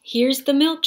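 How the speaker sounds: high, loud happy shout; excited shout. A narrator's reading. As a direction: shout it out proudly. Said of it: "shouted Jack".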